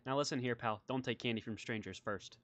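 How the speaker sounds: hint of a friendly, folksy lawman; folksy small-town sheriff. Sheriff advising a kid about candy, lightly folksy. Game master plays sheriff.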